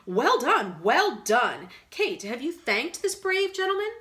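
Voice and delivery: loud, bright praise; hearty exclaim. A narrator's reading. Brother praising the gentleman, loud and hearty. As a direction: cheer him on heartily.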